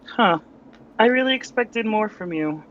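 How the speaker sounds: mildly disappointed, pitch lifted; a touch of cool letdown, in character; unimpressed. Acted. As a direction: act let down by a weak attack. Acting Sarah catching a blow, unimpressed.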